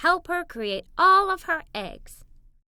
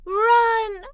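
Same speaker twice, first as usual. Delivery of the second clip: shouted warning; 8 semitones higher, 7 dB louder than usual. Acted. Child yelling run as bees swarm. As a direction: yell it out loud and high.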